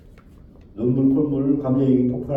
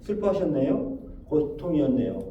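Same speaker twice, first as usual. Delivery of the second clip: gently acknowledging; 5 dB quieter than usual. Shown as a demonstration. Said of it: "인정만 해주면 되는 거예요".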